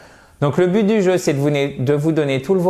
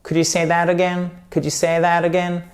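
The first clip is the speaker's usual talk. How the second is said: drawn-out, baffled request to repeat; politely fail to understand, stretching the words; puzzled listener; 3 semitones higher, slower than usual. Acted. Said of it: "si vous dites my parents".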